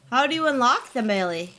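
ordinary delivery

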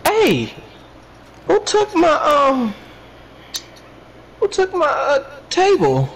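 yelling across the room. Real, not acted. Calling out for missing table.

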